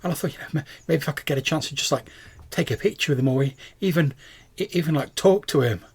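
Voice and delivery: halting, dreamy fan voice; swooning. Acted. Starstruck fan hopes to meet her idol, lightly swooning. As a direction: gush haltingly, pitch a little lifted. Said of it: "like, swooning as she's talking".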